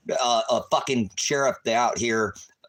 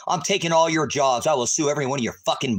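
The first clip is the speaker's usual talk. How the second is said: angry threat; 5 semitones higher, 4 dB louder, faster than usual. Real, not acted. Threatening deputies while yelling.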